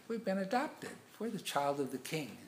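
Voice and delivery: incredulous retold protest; protesting children. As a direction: object like an affronted child. Children protest at being given chores.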